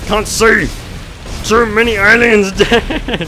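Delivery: high frantic laughing yell; panicked laughter. Real, not acted. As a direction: laugh helplessly while overwhelmed. Panicked laughing during swarm.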